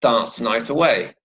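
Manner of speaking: "dance" stressed, "night away" linked and falling. Shown as a demonstration. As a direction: hit "dance", then join "night away" as nigh-taway. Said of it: "a stress on the word dance".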